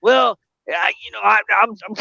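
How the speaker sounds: high, stammering imitation; mock nervous hesitation; imitated scared friend. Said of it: "I'm scared".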